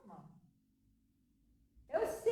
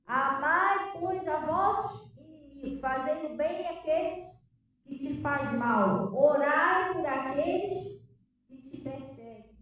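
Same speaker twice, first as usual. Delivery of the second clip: slow, weighty recitation; scripture recital; slower than usual. Acted. Pastor reciting the Bible verse to the church, slowly. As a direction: lay each word down slowly.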